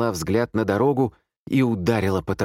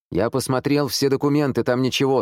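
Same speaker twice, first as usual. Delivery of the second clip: higher-pitched man reporting a fruitless search; 7 semitones higher than usual. A narrator's reading. Second man reports from the living room, raised pitch.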